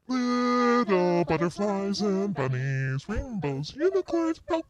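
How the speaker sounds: very high, soft sing-song; cutesy girly voice. Pretend. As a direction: coo it like a little girl. Silly cutesy voice.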